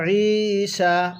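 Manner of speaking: ঈশা with the আইন pressed from the throat, slow; pressed ain. Shown as a demonstration. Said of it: "আইনটা চাপ দিয়ে পড়বেন". (ঈশা-র আইন চাপ দিয়ে)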